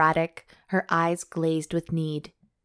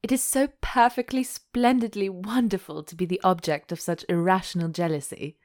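laughing. A narrator's reading. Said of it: "she burst out laughing".

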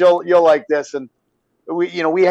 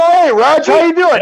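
higher-pitched hearty hello; retold hearty greeting; 10 semitones higher, 4 dB louder than usual. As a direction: greet an old pal eagerly. Retold friendly greeting to player.

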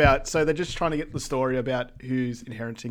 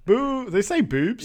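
high, loud yell as if into an echo; echo shout; 9 semitones higher, 4 dB louder, slower than usual. Retold or imitated. Imitating the old man's echo yell, a high, loud shout. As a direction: shout it up high to hear it bounce back. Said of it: "that old dude going".

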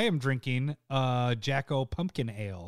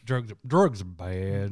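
mock PSA voice; 6 semitones lower, slower than usual. Mock PSA, slow and low.

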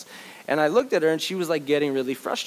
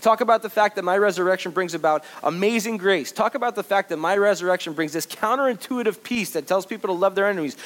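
hammed-up higher, louder preacher voicing Jesus; mock Jesus commission; 5 semitones higher, 4 dB louder than usual. Preacher voicing Jesus sending the disciples, mock grand. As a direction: play Jesus sending them out, overdone.

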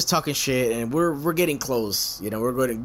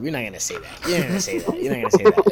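starts muttered, ends higher and louder; building insistence; 6 semitones higher, 4 dB louder, faster than usual. Retold or imitated. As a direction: repeat it, pushing harder each time. Friend repeats warning, building up.

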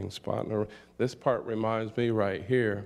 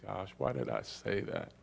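embarrassed; 3 semitones lower, 8 dB quieter than usual. Retold or imitated. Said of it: "And I was like".

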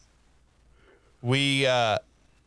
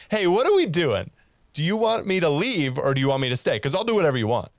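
raised, sing-song pretend innocence; mock innocent; 3 semitones higher than usual. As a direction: play it faux-helpful and a bit sarcastic. Retold reply to the guard.

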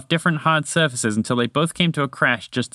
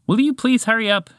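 higher, impatient shout; 10 semitones higher than usual. Acted. Toucan stuck in the cave yells at the moose, impatient. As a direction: bark it from behind, fed up. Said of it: "shouted Mister Toucan impatiently".

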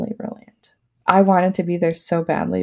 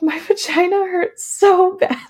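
giggled through, much higher; laughing complaint; 11 semitones higher than usual. Retold or imitated. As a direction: laugh while you complain. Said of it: "I was like".

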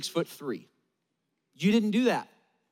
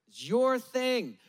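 is YOUR thing, slow with a falling end; stress on your; 4 semitones higher, slower than usual. Acted. Preacher to the congregation, slow stress on YOUR. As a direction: lean on YOUR and let it drop. Repeated refrain.

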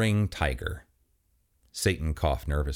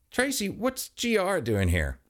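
slow, pitched-up alarm; high alarmed voice; 13 semitones higher than usual. Acted. Chris alarmed at Reaper.

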